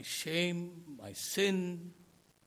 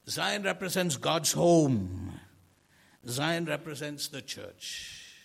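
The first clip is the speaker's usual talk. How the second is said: slower, louder preaching; emphatic proclamation; 7 dB louder than usual. Real, not acted. Preacher proclaiming Zion to the church, slow and louder. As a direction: proclaim it to the congregation.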